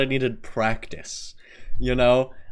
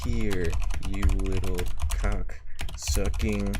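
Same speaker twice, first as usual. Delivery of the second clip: slow mock threat; 2 semitones lower, slower than usual. Streamer trying a Texan tirade of insults, slow mock threat. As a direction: spit out the insult slowly, with long pauses.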